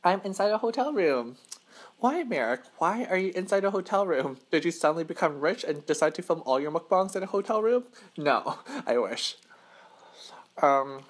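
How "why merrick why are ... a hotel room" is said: curious viewer. Pretend. Imagined viewer asking.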